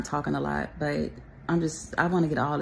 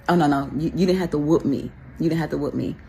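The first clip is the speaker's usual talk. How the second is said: emphatic; 5 dB louder, faster than usual. Real, not acted. Emphatic about not needing whooping.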